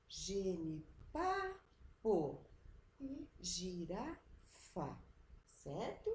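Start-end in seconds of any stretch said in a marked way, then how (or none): 0.1-1.2 "genipapo" with PA stretched, PO set apart; stress on PA. Shown as a demonstration. Teacher shows where it is stronger, stressing PA in "genipapo". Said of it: "mais forte". 3.4-5.0 "girafa" slowly, RA leaned on; stress on RA. Shown as a demonstration. Teacher shows where it is stronger, stressing RA in "girafa". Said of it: "mais forte".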